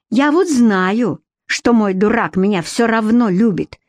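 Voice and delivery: slow, slurred tipsy confession; a lightly played drunk woman; drunk candor. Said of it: "с пьяной откровенностью".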